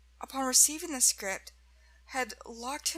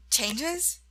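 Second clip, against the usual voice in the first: higher, louder one-word question, rising at the end; questioning surprise; 4 semitones higher, 5 dB louder than usual. A narrator's reading. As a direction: ask it with a raised brow. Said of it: "Smith asked, raising a brow".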